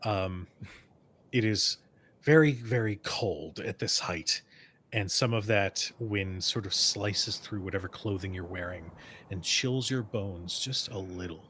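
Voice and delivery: measured game master narration; scene setting. Acted. Game master describing the cold open air to players, scene setting. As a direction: set the scene in deliberate phrases.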